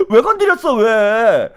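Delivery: hammed-up aggrieved complaint; mock angry outburst. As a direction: demand why in playful exasperation. Acting out a provoked man.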